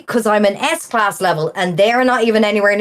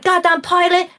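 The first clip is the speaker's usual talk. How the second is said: mock whiny gamer; 9 semitones higher than usual. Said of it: "and then he's like".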